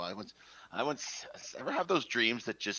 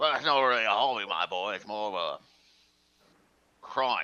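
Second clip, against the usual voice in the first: loud, put-on British accent; 7 dB louder than usual. In a scene, answering someone who calls shoplifting a hobby; British accent. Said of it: "Let's continue with British accent".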